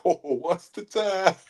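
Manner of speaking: high, slow Kiwi movie quote; New Zealand accent. Retold or imitated. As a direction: bust out a Kiwi accent line. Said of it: "I busted that out".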